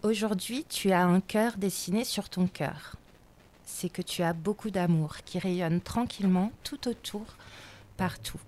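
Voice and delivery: gentle poetry recitation; poem reading. Acted. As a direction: read it like a tender portrait. Reads a portrait poem. (lecture de poème)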